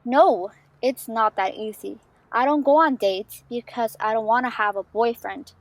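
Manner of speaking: insistent, with punched key words; emphatic teenage refusal; firm protest. Acted. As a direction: push back, stressing each reason. Friend argues against dating.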